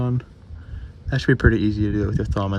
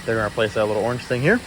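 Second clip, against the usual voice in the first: shouting over engine; 2 semitones higher, 4 dB louder than usual. Real, not acted. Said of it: "hopefully you can hear me over the engine".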